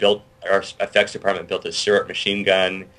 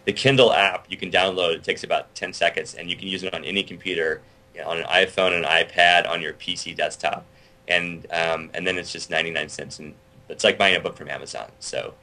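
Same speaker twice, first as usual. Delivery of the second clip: late night pitchman voice. Pretend. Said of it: "That was my late night pitchman voice".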